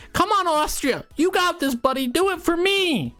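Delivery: root hard for your team like a fan; excited cheering. Real, not acted. Cheering on Austria in the timelapse, high excited shouting. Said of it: "I got excited".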